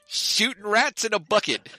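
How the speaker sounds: high, laughing echo of the phrase; laughing repeat. Real, not acted. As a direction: laugh it back in disbelief. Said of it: "Is, is that something they say in Davenport a lot?".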